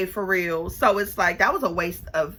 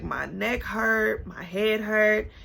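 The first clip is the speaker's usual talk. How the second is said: complaining; much slower than usual. Retold or imitated. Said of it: "is complaining".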